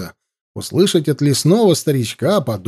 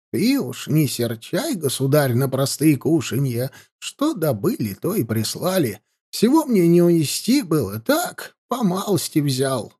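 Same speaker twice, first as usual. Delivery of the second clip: put-on soft old man voice; 5 dB quieter than usual. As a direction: apologise softly like a frail elder. Old man offers food.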